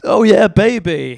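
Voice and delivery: loud, slow American porn moan; hammed-up American dirty talk, pitched high; American porn impression. Comic mocking American porn, hammed-up American accent. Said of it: "Americans, it sounds brilliant in their accent".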